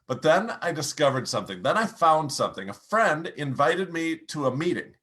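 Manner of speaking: lifted, livelier storytelling turn; picked-up energy. Shown as a demonstration. Coach demonstrating the moment of discovery, picked-up energy. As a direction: pick up the tone as the story turns upward. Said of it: "Now pick up your pace, pick up your volume".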